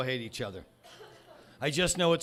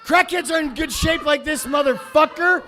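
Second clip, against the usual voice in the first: mocking the commenter; 9 semitones higher, 4 dB louder than usual. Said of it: "a few comments from Dixie Boy".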